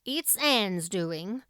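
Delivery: slow and grim, lightly voiced Marilla; a dry, mildly grim remark; grimly. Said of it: "grimly just".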